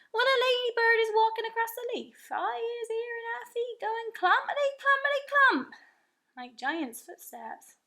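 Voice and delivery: the giant boasting of his hearing with wonder; friendly giant voice. A narrator's reading. The BFG telling Sophie what he hears, in a giant's voice.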